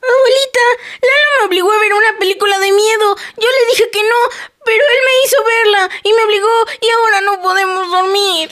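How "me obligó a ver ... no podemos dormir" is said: whiny crying. Acted. Tattling to grandma.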